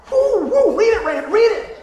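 high, loud whoops of retold excitement; acted-out eager cheering; excited whooping. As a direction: urge him on, whooping and high.

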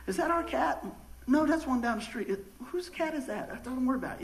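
lightly voiced domestic exchange; mock household chat. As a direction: act out a light, high back-and-forth. Acts out household exchange about cat.

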